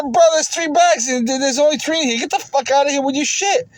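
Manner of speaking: mock angry customer. Customer dismisses the vlogger, angry imitation.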